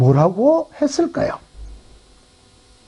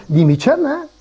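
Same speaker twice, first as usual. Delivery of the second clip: higher-pitched Gyeongsang retort; incredulous question in Gyeongsang dialect; 5 semitones higher than usual. Acted. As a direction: say it with a Gyeongsang lilt. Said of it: "이게 경상도 말로".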